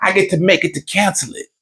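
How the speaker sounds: high protesting wife voice, rushing the last line; high hurried wife protest. Retold or imitated. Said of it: "She's like".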